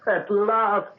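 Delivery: high, delighted exclamation; bursting with happiness; joyful. Acted. Father joyful at engagement news.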